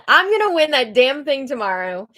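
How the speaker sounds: mildly worked-up mock vow; imitating flustered. Angela vows a win, lightly imitated fluster. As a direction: declare it with a touch of bluster. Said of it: "she's just all flustered".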